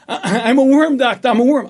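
high and loud, breaking into laughter; the joke cracks up its teller; a laugh through the patient's loud, high cry; laughing worm patient. Acted. Patient repeats worm claim, laughing.

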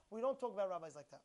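low, brisk firm correction; quick, matter-of-fact reproof; calm protest. Shown as a demonstration. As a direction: set the boundary without raising your voice. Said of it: "You understand how you do it?".

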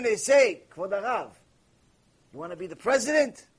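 ordinary talk, nothing marked

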